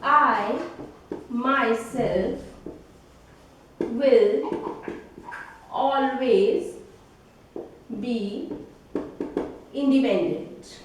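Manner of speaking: each word set apart with long pauses; slow dictation. Shown as a demonstration. Teacher dictates an example sentence to students, slowly. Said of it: "this sentence is emphasizing on our pronoun".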